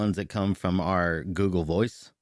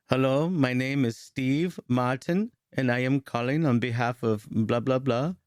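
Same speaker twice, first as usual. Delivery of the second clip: mock caller voice; 5 semitones higher, 3 dB louder than usual. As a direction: announce yourself like a stiff phone rep. Mocking scammer Steve Martin.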